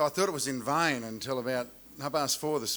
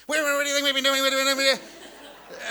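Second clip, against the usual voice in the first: put-on high, loud exasperated girls' voice; indignant daughters; 12 semitones higher, 6 dB louder than usual. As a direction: play the daughters snapping back in outrage. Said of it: "all three girls at once hit me".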